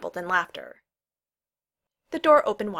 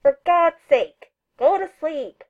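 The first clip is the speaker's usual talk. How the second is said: slow, high, loud exasperated yell; grumpy yelling; 9 semitones higher, 10 dB louder, slower than usual. A narrator's reading. Sleeper yells from his chambers at a noisy friend, grumpily. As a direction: holler grumpily through the wall. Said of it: "Neil's muffled voice yelled grumpily".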